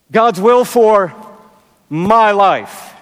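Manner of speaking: slow, with my set apart; pause, then hit my; stress on my. Shown as a demonstration. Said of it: "But the emphasis might become".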